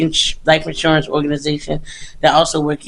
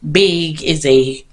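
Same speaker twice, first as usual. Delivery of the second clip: out of breath; slower than usual. Real, not acted. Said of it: "I'm out of breath".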